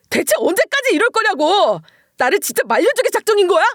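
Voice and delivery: 높고 크게 어머니에게 소리치는 아들; 참다 못해 터뜨리는 고함; 고래고래 고함. Acted. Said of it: "남편은 시모에게 고래고래 소리를 질러댔고". (더 높은 음으로 '언제까지'를 세게 내지르는 고함)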